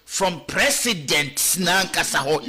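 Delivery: slow, deliberate, each word weighed; slow emphatic repeat; slow emphasis. Shown as a demonstration. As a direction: spell it out slowly to drive the point home. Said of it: "ye emphasize".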